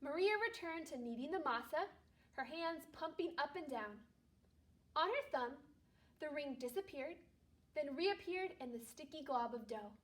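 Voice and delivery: calm read-aloud storytelling voice; story narration. Acted. Teacher reading a Christmas story aloud to her class, calm narration. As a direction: read it gently to a second-grade class.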